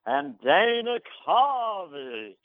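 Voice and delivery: slow, high booming announcer call; Don Pardo voice. Retold or imitated. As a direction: stretch out the name like a TV announcer. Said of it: "So then Don Pardo goes".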